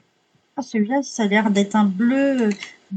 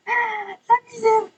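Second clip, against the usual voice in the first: gémissement très aigu et traînant; lamente-toi lentement, d'une voix haut perchée; plainte théâtrale; 10 semitones higher, much slower than usual. Real, not acted. Lutte avec les tubes, se lamente. (plainte aiguë et théâtrale)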